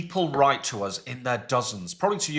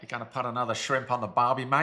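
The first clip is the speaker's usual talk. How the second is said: put-on Australian accent; casual mock-Australian voice. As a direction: do a jokey Aussie accent. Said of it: "say it then in an Australian accent".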